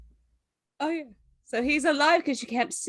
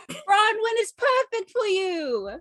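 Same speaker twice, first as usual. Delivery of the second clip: slow, drawn-out teasing; 6 semitones higher, slower than usual. Acted. Companion recommends glowing pebbles to Bronwyn, drawn-out teasing. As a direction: stretch it out with a laugh in the voice.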